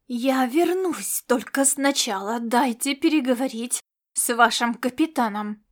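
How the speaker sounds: purr-growl your terms like a proud cat; growled demand. Acted. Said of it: "довольно внятно прорычала она".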